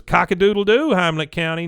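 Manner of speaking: high, loud on-air greeting; imitated weather presenter. Nancy doing the weather on Channel eighty-four, chirpy mock broadcast. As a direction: crow it out like a local TV presenter.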